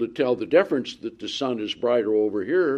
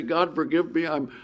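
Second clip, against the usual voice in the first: mock prayer; 4 semitones higher than usual. Shown as a demonstration. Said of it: "get on your knees and say".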